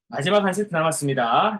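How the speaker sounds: ordinary delivery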